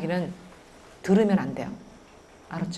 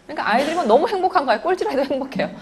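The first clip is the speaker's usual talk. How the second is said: laughing; 7 semitones higher, 3 dB louder, faster than usual. Real, not acted. Laughing about happy kids.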